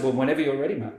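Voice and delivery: calm, unhurried retort to an aggressive man; eerily calm. Retold or imitated. Cop calmly answers a raging man, eerily calm. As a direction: stay cool and let it sit. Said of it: "I was eerily calm".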